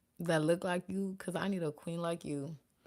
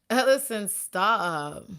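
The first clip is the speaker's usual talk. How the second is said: loud and high, cutting someone off; a real half-laughing yell at Ellison; calling out sharply; 4 semitones higher, 10 dB louder, much slower than usual. Real, not acted. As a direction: shout the name, then stop them. Scolding someone in the room.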